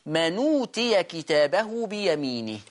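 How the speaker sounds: slow careful reading of من أوتي; careful teaching pronunciation; naql demo. Shown as a demonstration. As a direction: say من أوتي slowly, nun joined to the vowel. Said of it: "فيصير النطق".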